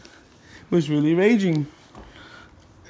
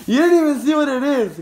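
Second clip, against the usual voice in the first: laughing; 4 semitones higher, 3 dB louder than usual. Real, not acted. Dad laughs at kid's reaction.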